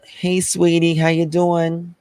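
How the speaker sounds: high, sugary Southern greeting; Southern accent. Shown as a demonstration. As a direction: greet them like a Southern sweetie. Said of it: "in the South, we always say".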